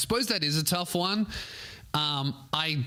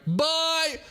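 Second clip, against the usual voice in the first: mock squeal.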